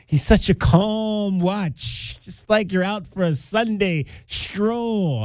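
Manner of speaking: slow, hushed golf commentator voice. Retold or imitated. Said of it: "I love that".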